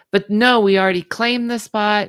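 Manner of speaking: indignant mom. Retold or imitated. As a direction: insist the spot is theirs. Retold mom's shout at owner.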